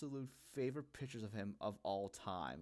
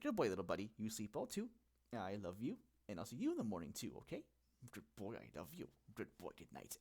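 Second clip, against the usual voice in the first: put-on baby talk. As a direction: coo it gently to a puppy. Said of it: "kinda, like, baby talk to them".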